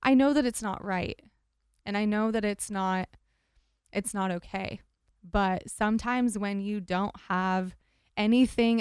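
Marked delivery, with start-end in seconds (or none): 0.0-4.8 tearful, pushing through; teary-eyed. Real, not acted. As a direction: speak through welling tears. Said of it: "getting a little teary-eyed over here".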